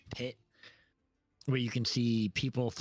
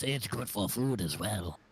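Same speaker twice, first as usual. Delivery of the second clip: secretive raspy sales murmur; 3 semitones lower than usual. Acted. GM voices shady tiefling merchant.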